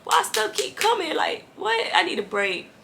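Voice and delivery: high, loud, exasperated rant with a laugh; freaking out. Retold or imitated. Her old self overwhelmed by troubles, in a high, loud freak-out. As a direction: play her old self, fed up and panicking. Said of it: "the old me, I be freaking out".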